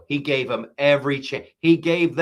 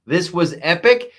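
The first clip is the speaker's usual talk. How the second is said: louder, higher, rising on epic; excited emphasis; 3 semitones higher, 6 dB louder than usual. Real, not acted. Comedian reviewing the speech, building to excited praise. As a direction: punch it up with real delight.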